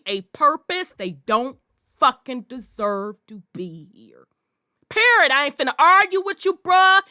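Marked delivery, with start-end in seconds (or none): 4.9-7.0 fed-up dismissal. Acted. Dismissing critics.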